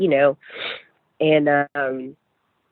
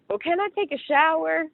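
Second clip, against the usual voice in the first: 1 pleading ask; 14 semitones higher than usual. Retold or imitated. Asking nurse before emergency surgery.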